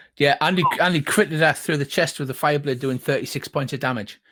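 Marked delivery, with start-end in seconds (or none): none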